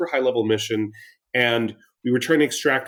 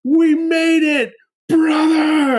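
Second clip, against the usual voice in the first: much higher, louder and slow victory cry; a hammed-up triumphant yell at making it; slow, high, loud triumph to a teammate; 6 dB louder, much slower than usual. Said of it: "and I'm like".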